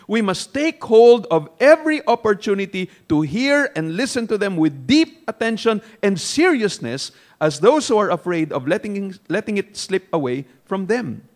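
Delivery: measured, emphatic sermon reading. Acted. Preacher quoting a commentary to the congregation, emphatic reading. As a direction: read it out with weight to a congregation.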